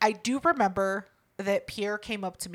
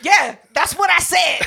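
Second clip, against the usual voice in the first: laughing; 8 semitones higher, 9 dB louder, slower than usual. Real, not acted. S1 laughs admitting the quote.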